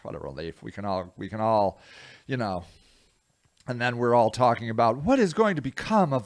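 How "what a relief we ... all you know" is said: mock relief. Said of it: "you were like".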